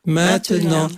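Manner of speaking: level, monotone rosary chant; choral prayer response. Real, not acted. Congregation answering the leader in the Hail Mary, monotone prayer. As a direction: draw the words out evenly, all together.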